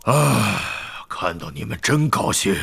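low, softening sigh of welcome; sigh, then greet them tenderly and low; tired, low-pitched pleasure; weary gladness. A narrator's reading. Injured Hagrid sits, greets friends.

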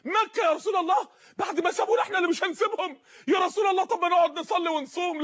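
a startled companion who can't believe his ears; alarmed companion. Acted.

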